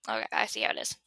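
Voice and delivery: quiet mock-hurt whisper; mock offended. Real, not acted. Snubbed by her cat, mock offended whisper. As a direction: pretend to be snubbed.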